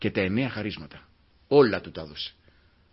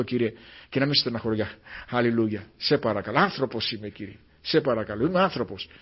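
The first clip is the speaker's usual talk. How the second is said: humble prayer. Acted. Preacher voices a penitent's prayer.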